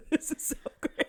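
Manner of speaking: breathy half-whispered mock delight; mock hushed gush. Andy whispering his delight to the group. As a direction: whisper it like a starstruck fan. Andy's over there like.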